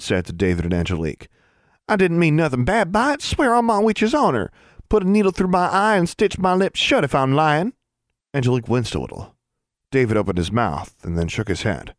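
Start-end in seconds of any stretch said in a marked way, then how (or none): 1.9-7.7 put-on very high, earnest country girl; high-pitched pleading rustic child; Innocence. A narrator's reading. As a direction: swear it insistently as a little girl.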